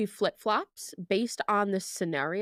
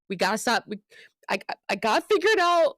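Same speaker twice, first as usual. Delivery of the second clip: frantic panic; 2 semitones higher, 5 dB louder, faster than usual. Retold or imitated. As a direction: blurt it out in a panic, pitched up. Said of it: "I'm like".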